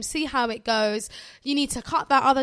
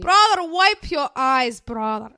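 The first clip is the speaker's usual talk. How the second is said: put-on Somali mum accent; 5 dB louder, slower than usual. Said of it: "That's how she's".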